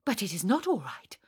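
gloomy objection, falling at the end; tragic contradiction. Acted. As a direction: refuse to be cheered up. Sonia contradicts the cheerful reply.

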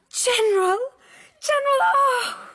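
high excited gasp of joy; delighted. Real, not acted. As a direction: cry out in delight. Delighted cries at gift.

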